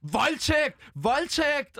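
half-hearted mock screams, pitch climbing; imitating her shouts. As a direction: lightly mimic her cries, rising. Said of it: "Hun råbte helt vildt sådan noget".

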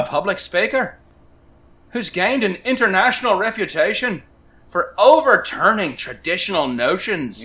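playful Irish lilt, like Lucky the Leprechaun; Irish accent. Acted. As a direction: read the bio with a hammed-up Irish brogue. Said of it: "read it in a, uh, Irish accent".

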